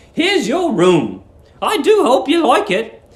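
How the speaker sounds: put-on high, sweet old landlady. A narrator's reading. Old landlady cooing at young guest Billy, high and sweet. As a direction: coo it like a doting landlady.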